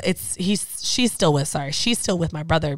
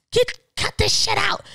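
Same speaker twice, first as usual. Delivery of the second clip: high-pitched scolding at usual volume; mock scolding; 14 semitones higher than usual. Talking to dogs like humans, high mock scolding.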